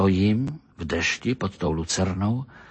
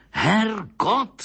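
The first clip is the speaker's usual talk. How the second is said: mild roar; 10 semitones higher than usual. A narrator's reading. Doctor cursing at his puzzled listener, mildly roared. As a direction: burst out with the curse, held back in volume. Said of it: "zařval doktor Mejzlík".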